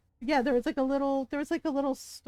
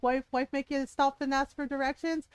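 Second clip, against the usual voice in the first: lightly imitated Scottish local; ribbing question in a mock Scottish accent; full Scottish accent; 3 semitones higher than usual. Old Scottish guy ribbing a lost husband, imitated Scottish accent. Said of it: "full, full Scottish".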